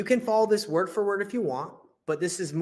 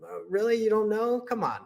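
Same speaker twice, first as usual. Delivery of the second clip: mildly incredulous, pitch lifted on the question; pressing disbelief; 5 semitones higher than usual. Shown as a demonstration. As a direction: coax them with playful doubt. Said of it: "You really press on that".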